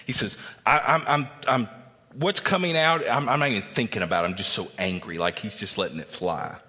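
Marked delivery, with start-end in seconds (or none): 0.6-5.2 loud, fast, high-pitched sputtering rage; furious outburst. Retold or imitated. Zophar blowing up at Job, furious and sputtering. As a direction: play Zophar losing his temper. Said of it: "He is furious".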